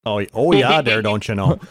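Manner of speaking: mock Minnesota accent, don't you know. Shown as a demonstration. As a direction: play up the Midwest accent for laughs. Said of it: "based on the accent".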